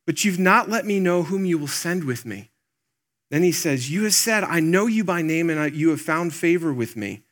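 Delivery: a pastor voicing Moses begging God; pleading with God. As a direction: beg as Moses, voice lifted. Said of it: "pleading with God".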